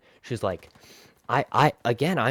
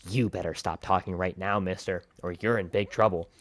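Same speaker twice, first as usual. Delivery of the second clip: stern teacher cutting in; 4 semitones lower than usual. Retold or imitated. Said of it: "just again cuts me off with".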